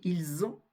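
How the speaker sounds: ils ont joined as "il-zont"; liaison with sounded S. Shown as a demonstration. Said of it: "vous allez prononcer le S".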